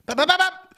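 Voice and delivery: punch sound effects. Shown as a demonstration. Boxer showing the sounds he'll make with Wayne, punchy. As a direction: pop out quick cartoon punch noises. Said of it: "I'm doing that".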